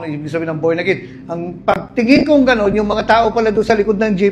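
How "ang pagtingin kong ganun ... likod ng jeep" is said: louder and higher, thrilled; excited build. Real, not acted. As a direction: tell it like you can't believe it. Excited about passengers listening. (masiglang kuwento, lumalakas)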